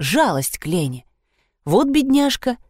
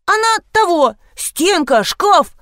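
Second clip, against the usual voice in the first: much higher, louder jumbled blurting; excited interrupting; 11 semitones higher, 3 dB louder, slower than usual. Acted. Two women explain the collapsed wall, blurting over each other. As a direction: blurt it all at once. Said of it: "перебивая друг друга".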